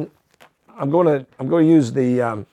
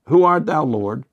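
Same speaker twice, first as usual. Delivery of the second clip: a raised, higher cry of Saul calling to an unseen voice; 3 semitones higher than usual. Retold or imitated. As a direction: call it up high, then let Lord drop. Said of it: "So when Saul cries out there".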